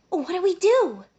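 high frantic question; scared and rushing; panicked. Acted. Panic at returning captors.

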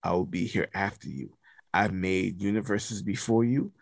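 a hint of solemn, all-powerful God; lightly voiced deity. All Father declaring his eternal power, lightly voiced solemn deity. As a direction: declare it low and measured, with pauses.

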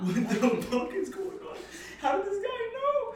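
very high, drawn-out squeal of disbelief; retold freak-out. Tipsy on acid, stunned by stranger, hammed-up shock.

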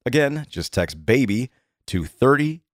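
upbeat, conversational sponsor read; steady promo read, key offers punched; podcast ad read. Acted. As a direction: sell it like a friendly host endorsement. Reads a sponsor ad.

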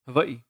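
Hawaii said with a V, "Havai-ee"; Hawaiian pronunciation. Retold or imitated. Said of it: "That's how the Hawaiians say it".

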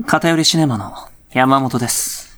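slow, lightly put-on heartthrob host; self-absorbed handsome-voiced podcaster. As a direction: introduce yourself slowly, drunk on your own voice. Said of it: "本気で酔うわ".

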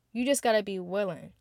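usual speaking voice

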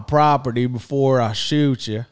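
slow Southern drawl imitating the sister; mock Forrest Gump accent, slow and drawled; lightly imitated Southern accent. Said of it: "she sounds like Forrest Gump".

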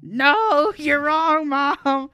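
loud, high retold protest with a laugh breaking in; upset denial. Insisting to mom she is wrong, upset denial. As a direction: cry it out in mock-upset refusal. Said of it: "starting to get upset".

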